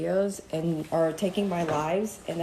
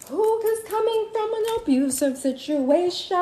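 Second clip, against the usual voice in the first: mock sing-song; 12 semitones higher than usual. Sung-speech rant on the man.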